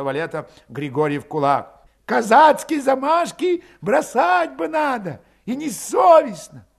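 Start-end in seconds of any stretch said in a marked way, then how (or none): 2.1-6.7 high, loud scolding; indignant reproach. A narrator's reading. Scolding Melekhov for Cossack bullying, indignant. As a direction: shame him in a raised, outraged voice.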